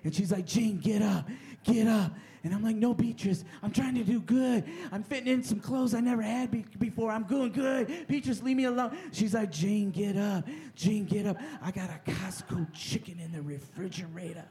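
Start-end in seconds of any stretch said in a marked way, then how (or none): 0.5-2.1 insistent Southern inner-voice character; Southern accent. Acted. Inner fat lady urging the comic up, Southern accent. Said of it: "She has a Southern accent". 2.8-9.0 high, whiny-edged mock plea; pleading protest. Comic begging the inner fat lady to leave, mock pleading. 9.5-14.4 Southern temptress, trailing softer; Southern accent. Acted. Inner fat lady luring the comic to food, hushed Southern accent. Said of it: "She has a Southern accent".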